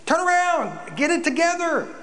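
high-pitched call, hammed-up crowd shout; preacher shouting to crowd. Wilderness preacher rallying a crowd to repent, acted shout. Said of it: "shouting to the crowd".

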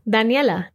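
Daniela as dah-NYEH-lah; Spanish pronunciation. Shown as a demonstration. Teacher contrasting names between languages, Spanish Daniela. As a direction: say Daniela the Spanish way, open vowels. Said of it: "I'll read the Spanish pronunciation first".

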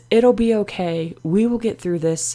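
steady, soothing inner supporter; calm reassurance. Acted. Biggest fan talks her through it, calmly. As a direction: say it calmly to settle someone down. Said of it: "She always just calmly says".

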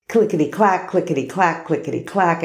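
rhythmic clickety-clack patter; imitated typing. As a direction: chant it like busy typing.

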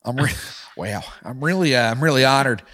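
George Bush. Acted. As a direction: chuckle and stumble through humble thanks. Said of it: "George Bush".

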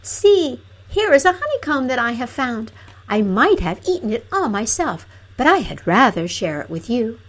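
high, bright princess calling out; calling gaily. Acted. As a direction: call out happily, offering a gift. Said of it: "calling gaily".

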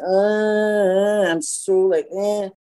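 long drawn-out whine of unwillingness; retold hemming and hawing; reluctant. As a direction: groan as if badgered into it. Retold reluctance when pushed.

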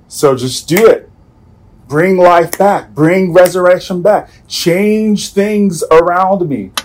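demanding prayer. Retold or imitated. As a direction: insist God fix it now. Demanding God act now.

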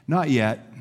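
calm, gentle refusal. Acted. Master to the protesting clay, gently. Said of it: "smiled and gently said".

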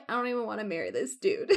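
quick, laughing half-sob as she quotes; laughing through a quote. Real, not acted. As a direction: giggle through the line. Quoting Fanny while laughing.

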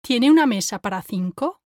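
soft unaspirated T in "Tiene"; soft Spanish T. Shown as a demonstration. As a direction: say "Tiene" with tongue on the back of top teeth. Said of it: "compare it to mine".

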